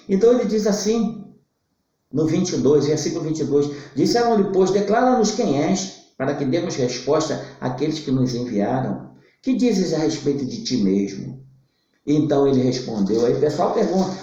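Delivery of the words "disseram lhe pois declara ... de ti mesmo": scripture reading. Acted. Preacher reading the verse aloud to the congregation, solemn scripture reading.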